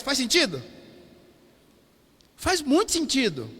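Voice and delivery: lightly imitated preacher's catchphrase; Theo Hayashi impression. Pastor checks with the congregation, lightly imitating another preacher. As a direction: ask it as a borrowed catchphrase, lightly mimicked. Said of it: "Vou falar igual o Theo Hayashi".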